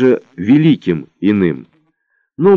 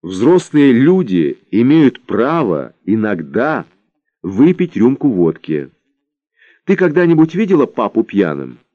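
stern; 2 semitones higher than usual. Acted. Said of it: "совсем уж сурово сказала".

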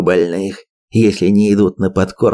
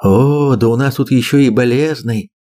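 smirking; 3 semitones higher than usual. Acted. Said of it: "усмехнулся Имсу".

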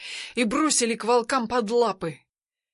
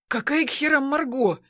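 stern shout; 5 semitones higher than usual. Acted. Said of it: "строго орёт на меня Тигран".

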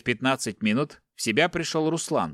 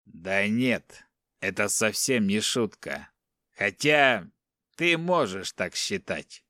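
calm captor; 3 semitones lower, slower than usual. Acted. Captor calmly dismissing the captive's protest. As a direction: answer coolly and a bit lower.

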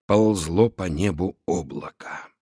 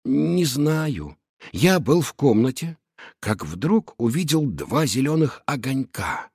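shaken tearful witness; 2 semitones higher than usual. Acted. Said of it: "Шустрик волновался".

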